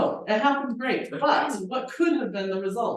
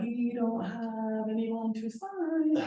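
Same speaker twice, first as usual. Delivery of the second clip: slow, stretched-out, higher panicked plea; mock panic; 4 semitones higher, much slower than usual. Telling the agent there is no signer, mock panic. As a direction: act out panic by dragging each word, pitched up. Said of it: "I'm panicking".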